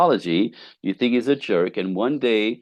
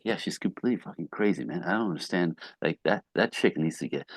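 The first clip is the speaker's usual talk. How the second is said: lowered voice; 2 semitones lower, 7 dB quieter than usual. Retold or imitated. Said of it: "That's why he lowered his voice".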